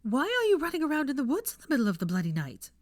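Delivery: high, loud indignant demand. A narrator's reading. Hermione loudly and indignantly demanding answers from Draco. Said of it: "she demanded".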